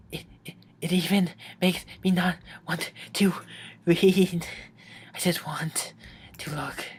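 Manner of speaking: Yuri's hushed, fixated whisper. Acted. Yuri whispers to Matt while staring at him. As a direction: breathe it out, barely there.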